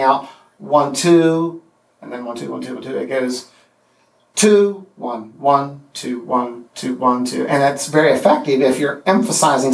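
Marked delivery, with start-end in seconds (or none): 2.0-7.5 counting with the first beat stressed; one-two count flipped at the start; trochaic beat. Shown as a demonstration. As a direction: chant the beats with a strong first one. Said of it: "a trochaic substitution".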